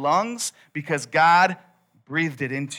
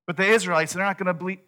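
higher-pitched, anxious objection; worried protest; 4 semitones higher, much faster than usual. Acted. Moses protesting to God about the Israelites, worried protest. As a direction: push back with another excuse.

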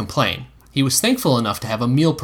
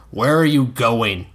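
slow stern question; slower than usual. Acted. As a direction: demand it sternly. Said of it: "Dunk asked in a stern voice".

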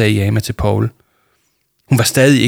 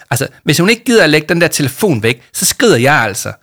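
tight, clipped-off complaint, pitched up; tense; 5 semitones higher, 5 dB louder than usual. Acted. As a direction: say it tight with irritation. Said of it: "sagde Jama stramt".

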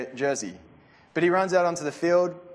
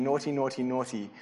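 mock scolding; 2 semitones lower, 5 dB quieter than usual. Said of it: "waving the finger at you and saying".

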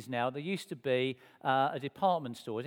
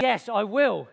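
eager yes; 4 semitones higher, 7 dB louder, slower than usual. Retold or imitated. Lunch invitation accepted instantly.

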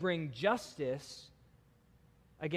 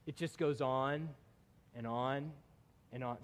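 fading away; 4 semitones lower, 6 dB quieter than usual. Acted. Trailing repetition.

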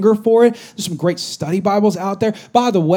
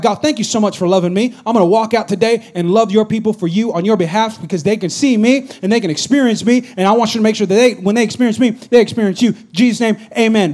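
a fervent spoken prayer, a little louder; sample prayer; 4 semitones higher, 3 dB louder than usual. Shown as a demonstration. Pastor demonstrating a journal prayer to the church. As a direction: pray it out as an example. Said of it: "Then you start writing".

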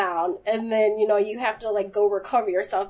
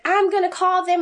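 mock yell; 7 semitones higher, 4 dB louder than usual. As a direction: stretch it out like a huffy boss complaining. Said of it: "he's yelling".

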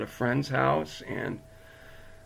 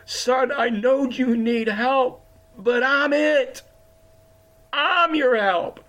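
voice of the Lord; 8 semitones higher, 3 dB louder, slower than usual. Acted. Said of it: "the Lord was personally letting me know".

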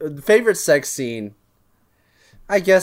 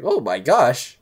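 man doing a woman's voice; 3 semitones lower, slower than usual. Retold or imitated. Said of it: "That's my impression of your mom".

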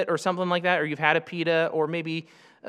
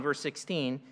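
ordinary talk, nothing marked

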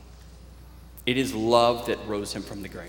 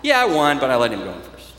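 proud burst, then a modest climb-down; mock boast turning humble; 8 dB louder, faster than usual. Preacher voices John bragging about the foot race, mock-proud then humble.

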